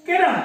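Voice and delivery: किरण with a quick, short i. Shown as a demonstration. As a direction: say किरण briskly, first vowel kept short. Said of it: "छोटी ई की मात्रा लगी हुई है".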